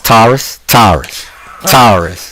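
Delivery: lightly mimicked Georgia accent; a hint of Southern twang on "Taurus"; Southern accent imitation. Imitating how she says her star sign, light Southern accent. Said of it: "She says".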